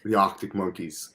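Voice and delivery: British accent learned off TV; put-on British accent. Shown as a demonstration. Podcaster admitting he's never been to England, in mock British. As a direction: imitate British speech from television. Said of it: "doing this off of T V".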